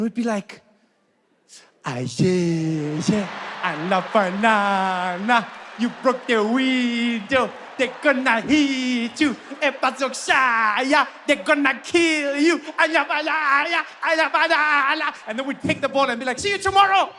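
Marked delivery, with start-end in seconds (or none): 1.8-15.1 put-on slow, goofy child talking nonsense; mock dim kid voice. Kids voiced as dim, carefree. 16.4-17.1 high, breezy goodbye; mock cheerful kid. Kid cheerfully leaving with ball.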